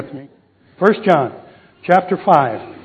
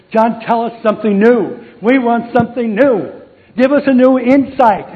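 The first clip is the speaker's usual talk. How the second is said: higher and louder, rising with each plea; eager followers pleading; 6 semitones higher, 3 dB louder than usual. Retold or imitated. Followers pleading with old John for a new insight. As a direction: beg for something new.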